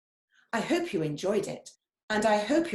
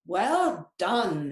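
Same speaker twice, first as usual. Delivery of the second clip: hissing; 4 dB louder than usual. Acted. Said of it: "hissed Snake".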